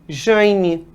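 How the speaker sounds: "Jaime" with nasal "jãi"; nasalized name. Shown as a demonstration. Teacher gives a proper name as example, nasalized. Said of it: "Tem gente que nasaliza".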